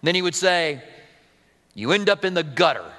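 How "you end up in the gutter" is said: a light Southern US drawl, lazily stretched. Retold or imitated. Pastor quoting J Vernon McGee in a light Southern drawl. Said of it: "in his southern drawl".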